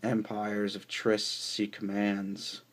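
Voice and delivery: measured, declamatory poem recital; poetry reading. Acted. Poet reads Clown Car Cavalcade to listeners, poetry reading. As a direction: recite it phrase by phrase, weighting the images.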